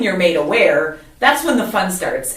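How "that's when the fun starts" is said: dry sarcasm, lifted in pitch; sarcastic. Real, not acted. Woman recalling a hard road to awareness, sarcastic. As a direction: say it with mock cheer, meaning the opposite. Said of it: "I'm being very sarcastic when I say that".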